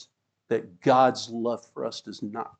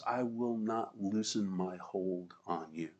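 soft, slow promise; 4 semitones lower, 11 dB quieter, slower than usual. Acted. Literal meaning of God's promise.

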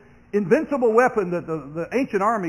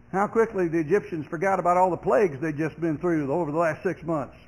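ordinary talk

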